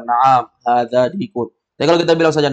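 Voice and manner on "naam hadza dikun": Naam, hadza dikun said slowly and deliberately; slow, clear answer. Shown as a demonstration. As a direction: spell out the full answer clearly. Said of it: "lebih jelas lagi kita bilang".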